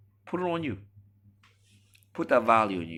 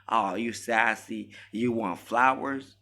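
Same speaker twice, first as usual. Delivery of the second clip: slow, higher, louder mocking drawl; mock sassy woman; 4 semitones higher, 5 dB louder, slower than usual. Mocking a woman dodging the man's question, slow scoffing mock.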